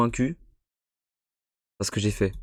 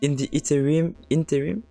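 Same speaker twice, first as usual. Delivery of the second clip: reading English aloud with a strong French accent. Real, not acted. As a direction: read the game text in heavily French-accented English. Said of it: "ne jugez pas mon accent".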